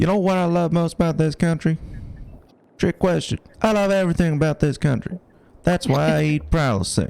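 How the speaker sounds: put-on high, sing-song delivery. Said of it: "That was bordering on a very good Obama impression".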